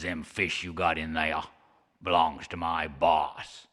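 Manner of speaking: a grumbling monster laying down the law; a hint of a surly old serpent; surly sea serpent. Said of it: "surly and cross".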